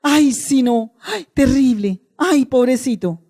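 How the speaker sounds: slow, mild mock wailing; a hint of a plañidera; mock hired mourner. Mocking a hired mourner at a funeral, slow mock wail. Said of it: "No sea uno de esos".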